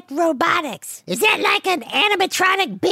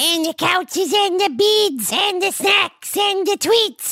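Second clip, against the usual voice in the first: put-on Kiwi accent; slower than usual. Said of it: "a Kiwi accent?".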